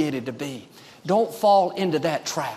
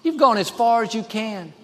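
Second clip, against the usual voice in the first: higher-pitched discouraging inner voice; voice of defeat; 5 semitones higher than usual. Acted. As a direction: lightly act out a voice telling someone to give up. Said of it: "One voice will tell you".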